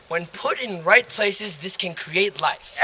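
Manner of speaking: slow, gentle and careful, picking each word; delicately. Acted. Priest gently explains to the nun, delicate and slow. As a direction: ease it out tactfully, slowly.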